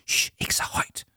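voiceless, urgent hush; hushed warning; shushing whisper. Acted. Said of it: "tyssede Jama".

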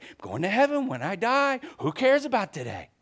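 buoyant, defiant "I'm going to heaven when I die"; bright declaration. Shown as a demonstration. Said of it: "It doesn't matter how I'm doing today".

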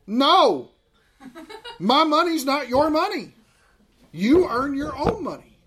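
high mock-stern dad, laughing; laughing refusal. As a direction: bark it out with a laugh.

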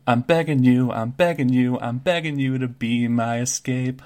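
urgent Kenku plea; pleading bird creature. Acted. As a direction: beg him, eyes locked. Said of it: "Kenku looks you right in the eyes and goes".

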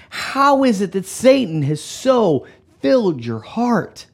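slow, heated accusation; acted indignant confrontation; going off on him. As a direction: lean hard into each word, drawn out and indignant. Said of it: "When he goes off on him".

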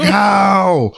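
high-pitched mock panic, held up throughout; internal screaming. Screaming inside about getting in trouble, high mock panic. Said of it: "I'm just internally screaming and everything".

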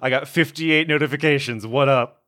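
loud, laughing, buzzing with alerts; excited notification voice. Pretend. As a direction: announce it like a hyped phone. Voicing Scarlet's hacker sense.

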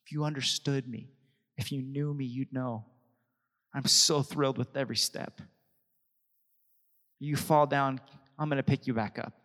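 soft, tender father's voice; gentle fatherly reassurance. Retold or imitated. A loving father speaks softly to his fallen child. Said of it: "he's there going".

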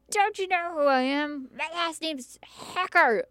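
mock the entitled customer demanding recognition; arrogant rich man. Co-host retells a car dealer berating her at security, mock arrogant. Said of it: "And he's like".

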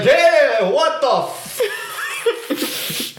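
high, loud, frantic cry cut off; panicked yell. Retold or imitated. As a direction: yell in panic from inside a coffin. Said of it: "pounding like".

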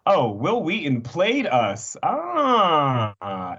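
slow, half-sobbing delight; a fan moved at being fooled; mock crying. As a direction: pretend to tear up, touched. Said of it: "It's like".

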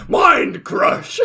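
high laughing battle cry; shouted attack name. Acted. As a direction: yell it like an anime attack, cracking up. Yami Carol attacks shopper.

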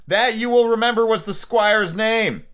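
high-pitched, exasperated quoting; mock indignation. Reader quoting the author's line back, mockingly indignant. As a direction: throw the words back incredulously.

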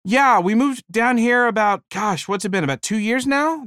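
chirpy husband. Retold or imitated. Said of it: "the man said".

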